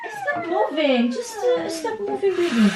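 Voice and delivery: high, slow, half-laughing plea. Real, not acted. Mother pleading high and laughing as her toddler squirms. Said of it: "yung boses ko, no, pataas".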